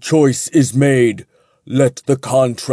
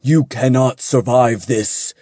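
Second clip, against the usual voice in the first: a big, louder angel voice with rising anger; thunderous with an edge of anger; 3 semitones higher, 3 dB louder than usual. A narrator's reading. Angel ordering Jin to drop the blade, thunderous anger. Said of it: "an edge of anger creeping into his thunderous words".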